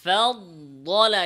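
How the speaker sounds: ফাদলা slow, with the dad nasalised; nasal mistake. Shown as a demonstration. Teacher showing nasal ghunna error. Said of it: "যেমন".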